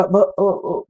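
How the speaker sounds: broken-off b-, a, a stammer; imitated stammer. Teacher retells the girl trying her name, stammering. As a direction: stumble on the first sound. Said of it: "she began to stammer".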